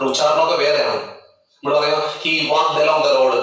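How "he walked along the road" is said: "he walked along the road" read very slowly, walked sounded out as wa-ked; slow, syllable-by-syllable walked as students say it; common Malayali pronunciation. Shown as a demonstration. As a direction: demonstrate the wrong, spelled-out way of saying walked. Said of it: "ഇങ്ങനെ പറയും".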